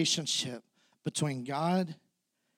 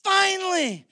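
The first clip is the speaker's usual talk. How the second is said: high, loud, thrilled; excited disciples; 5 semitones higher, 6 dB louder than usual. Retold or imitated. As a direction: cheer like the disciples who finally got their king. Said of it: "The disciples are like".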